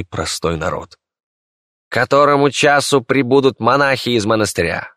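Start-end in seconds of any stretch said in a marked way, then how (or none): 1.9-4.9 steely emperor. Acted. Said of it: "Голос императора звенел, как сталь".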